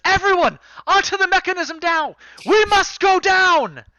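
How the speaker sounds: rally everyone with a battle cry; commanding shout. Acted. Captain shouting to everyone to board the mechanism, loud shout.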